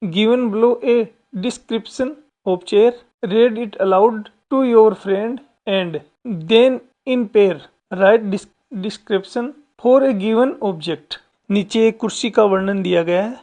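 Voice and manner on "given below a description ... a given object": very slow, careful English read-aloud; slow dictation reading. Shown as a demonstration. Teacher reading the worksheet instructions to students, very slow. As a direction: read each word out slowly for children.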